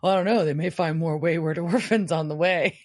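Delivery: amused mock snark; snarky retelling. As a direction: toss it off snarkily with a laugh creeping in. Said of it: "Castiel gets snarky".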